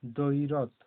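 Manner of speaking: দৈরথ with a firm দ and no ব sound; stressed দ, silent ব. Shown as a demonstration. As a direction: lean on the দ in দৈরথ. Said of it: "দটা জোর দিয়ে বলা হচ্ছে".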